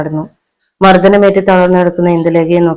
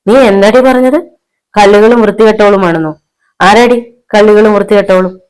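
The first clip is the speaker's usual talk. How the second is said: loud, high, incredulous anger; outraged confrontation; 4 semitones higher, 5 dB louder than usual. Acted. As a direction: demand an answer in fury. Husband angrily confronts wife.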